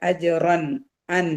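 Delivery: അജുറൻ ending on a distinct n; clear noon. Shown as a demonstration. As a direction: pick out the final അൻ cleanly. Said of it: "നൂനിന്റെ സൗണ്ടിനെ വെളിവാക്കുക".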